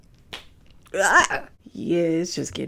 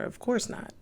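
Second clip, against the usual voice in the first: whispered aside; 8 semitones higher, 9 dB quieter than usual. Real, not acted. Sarcastic aside after a remark.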